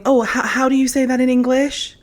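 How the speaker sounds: put-on Spanish accent, groping for English; mock Spanish accent. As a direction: mimic a faltering Spanish-accented speaker. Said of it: "goes around speaking with a Spanish accent".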